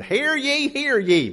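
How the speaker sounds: high mock English town crier call; bad English accent. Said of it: "in this really bad English accent".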